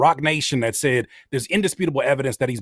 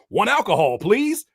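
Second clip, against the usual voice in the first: awkward order; 5 semitones higher than usual. Retold or imitated. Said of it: "Cat Daddy Man said".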